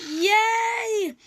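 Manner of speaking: high, loud squeal of joy; excited cheer. Retold or imitated. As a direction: burst out with delight. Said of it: "And I was like".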